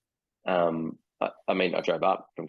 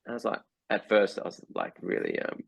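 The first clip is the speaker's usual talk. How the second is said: ordinary talk, nothing marked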